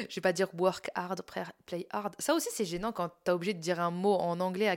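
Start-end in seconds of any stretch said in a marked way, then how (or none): 0.6-2.2 English words in a French accent. Shown as a demonstration. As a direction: say it with French r's, h's dropped. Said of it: "tu le dis avec l'accent français".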